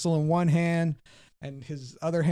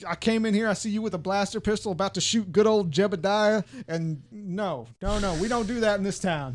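lightly voiced scolding sheriff; old sheriff; 2 semitones higher than usual. Sheriff scolds player caught with a blaster, lightly voiced stern lawman. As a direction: lay down the town's law, a touch raised.

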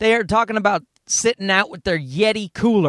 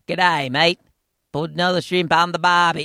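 put-on lower, caricatured Australian accent; 4 semitones lower than usual. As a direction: put on a hammed-up Aussie accent. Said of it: "You know how they talk".

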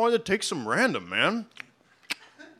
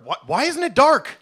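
normal talking voice

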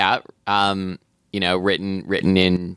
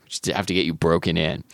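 story narration. Acted. Reads novel aloud.

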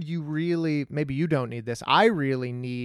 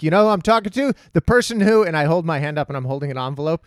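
irritated; 4 semitones higher, 7 dB louder than usual. Retold or imitated. Retold angry reply to heckler.

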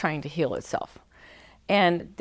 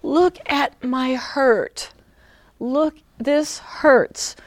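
put-on whiny child; 7 semitones higher, 5 dB louder, much slower than usual. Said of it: "they're doing this".

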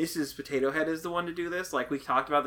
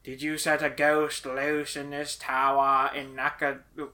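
Alan Rickman impression; 3 semitones lower than usual. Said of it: "You're doing a really good Alan Rickman".

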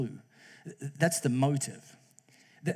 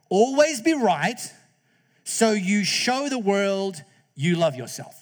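higher, louder, slow proclamation; fake-solemn announcement; hammed-up scripture reading; mock gospel; 3 semitones higher, 4 dB louder, slower than usual. Mock fake Jesus quote.

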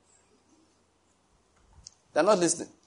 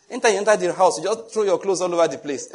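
a higher, louder scolding wife; a wife complaining to her husband, lightly mocking; mock nagging wife; 5 semitones higher, 4 dB louder than usual. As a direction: nag him about the clothes. Acted couple quarrel.

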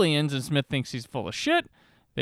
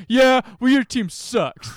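bad acting; 7 semitones higher, 6 dB louder, slower than usual. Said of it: "he delivered it like".

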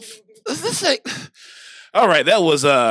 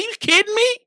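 I was like; 10 semitones higher, 4 dB louder than usual. Retold or imitated. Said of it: "I was like".

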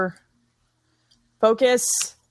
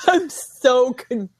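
higher, breaking up with laughter; laughing confusion; 4 semitones higher, 3 dB louder than usual. Real, not acted. Baffled viewer cracking up at the film, laughing confusion. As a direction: laugh through the bewilderment.

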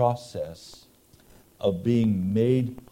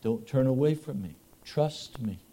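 softer, reassuring voice of God; gentle tender voice; 5 dB quieter than usual. Retold or imitated. God reassuring the congregation, tender and much softer. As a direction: soothe a frightened child. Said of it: "tender, gentle voice that says".

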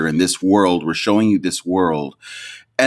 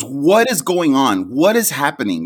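higher, emphatic mock astonishment; imitated wide-eyed bewilderment; 4 semitones higher than usual. Imitating Rosie as episode three ends, mildly astonished. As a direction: act mildly flabbergasted, punching each word. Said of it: "Rosie's eyes get really big".

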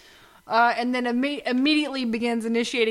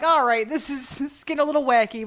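laughing. Retold or imitated. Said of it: "I'm like".

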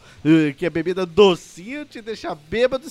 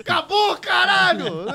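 much higher furious yell; angry shout; 10 semitones higher, slower than usual. Retold or imitated. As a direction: blow up at being woken. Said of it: "Eu imagino ele".

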